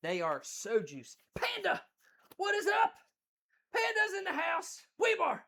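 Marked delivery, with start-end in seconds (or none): 1.3-5.4 excited greeting. Real, not acted. Greeting chat viewers.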